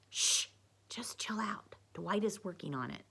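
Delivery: breathy whisper to calm someone; hushed. A narrator's reading. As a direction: shush her under your breath. Hushing Haley so Lisa won't hear.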